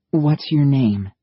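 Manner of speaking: slow, high, gentle motherly coaxing. Acted. Maddie coaxes the frightened soldier in her best motherly voice. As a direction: coax him like a mother soothing a scared child. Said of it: "in her best motherly voice".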